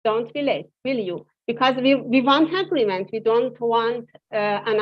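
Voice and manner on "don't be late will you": "will you?" dropping down; falling tag. Shown as a demonstration. Teacher reminding a student, voice falling. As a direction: let "will you?" fall as a firm reminder. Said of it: "the voice goes down here".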